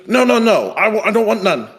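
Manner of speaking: high, frantic imitation of a scared landlord; mock panicked refusal. Landlord backing away from a process server, frantic and high. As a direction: squeal it out like a cornered man.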